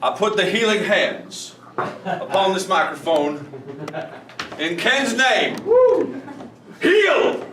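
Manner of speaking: rising preacher voice ending in a high shout; mock faith healer. Host hamming a faith healer blessing the microphone, shouting "Heal!". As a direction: ham up a televangelist healing the mic.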